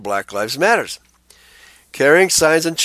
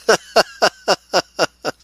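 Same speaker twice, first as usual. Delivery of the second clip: a quick high laugh; short laugh; 7 semitones higher than usual. Real, not acted. Host laughs while reading the quote. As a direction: let out a brief laugh. Laugh after quoting a resident.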